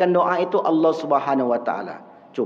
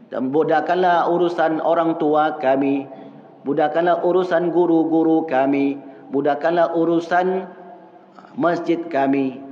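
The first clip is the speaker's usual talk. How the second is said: earnest prayer. Shown as a demonstration. Reciting sample prayer.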